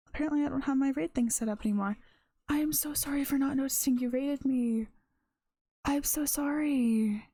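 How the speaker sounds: flustered apology. Real, not acted. Streamer apologizes for missing a raid.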